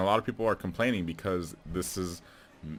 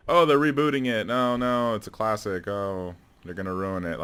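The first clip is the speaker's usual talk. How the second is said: loud, high outcry easing into a grumble; mock dismay; 4 semitones higher, 6 dB louder than usual. Movie fan mimicking people who complain about a reboot, mock dismay. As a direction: imitate a fan protesting, hammed-up then trailing down.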